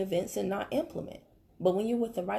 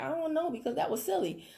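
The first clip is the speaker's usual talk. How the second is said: laughing scold; 7 semitones higher than usual. Retold or imitated. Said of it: "I'll be like".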